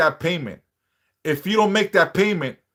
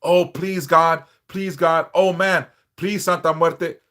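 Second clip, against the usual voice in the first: lightly imitated begging prayer; mock desperate pleading on your knees; mild pleading. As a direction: plead with God, a touch hammed up.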